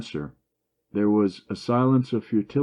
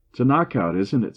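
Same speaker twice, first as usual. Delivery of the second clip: higher and louder, rowdy teasing; boisterous; 5 semitones higher, 5 dB louder than usual. A narrator's reading. Joe teases the doctor about his cold, boisterous. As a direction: rib the doctor loudly. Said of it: "said Joe boisterously".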